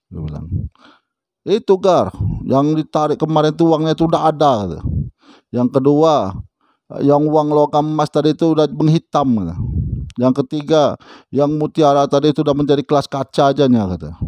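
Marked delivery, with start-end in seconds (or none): 1.5-4.5 mildly angry, voice pitched up; retold angry high tone. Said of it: "marah-marah sama saya dengan nada tinggi". 5.5-9.3 mildly angry, voice pitched up; retold angry high tone. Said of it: "marah-marah sama saya dengan nada tinggi". 10.2-13.7 mildly angry, voice pitched up; retold angry high tone. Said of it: "marah-marah sama saya dengan nada tinggi".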